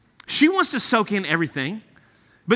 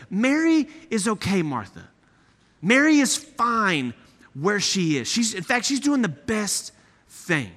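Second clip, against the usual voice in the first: calm her down kindly; gentle; slower than usual. Acted. Jesus gently answering Martha.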